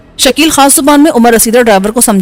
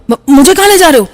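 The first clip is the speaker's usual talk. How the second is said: stammering fear; 3 semitones higher than usual. A narrator's reading. Frightened driver stammers.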